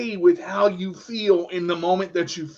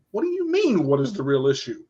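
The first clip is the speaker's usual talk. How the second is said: indignant retort; 3 semitones lower, faster than usual. Retold or imitated. Retort to friend's challenge.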